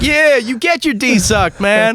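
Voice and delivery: high-pitched, lightly voiced kid cheer; cheering ten-year-old self. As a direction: imitate your kid self egging someone on. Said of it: "I was, like, ten".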